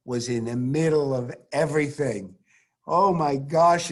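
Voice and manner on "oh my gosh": awed exclamation. Real, not acted. Gushing about Niels Bohr.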